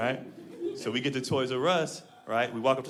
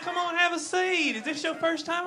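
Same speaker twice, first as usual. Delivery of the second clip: much higher, sweet Southern waitress voice; 13 semitones higher than usual. Retold or imitated. Southern waitress welcoming a customer, high sweet drawl. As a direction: coo it like a syrupy diner waitress. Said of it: "She's like".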